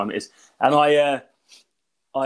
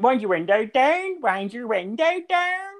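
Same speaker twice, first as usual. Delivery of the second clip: mock Northern Ireland accent; 8 semitones higher, slower than usual. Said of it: "speaking in a Northern Ireland accent".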